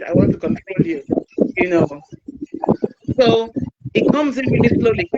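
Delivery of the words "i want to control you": high breathless whisper of the hidden meaning; a whispered reveal of the abuser's true aim; whispered real meaning. Retold or imitated. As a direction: whisper what's really meant. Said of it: "what I hear is".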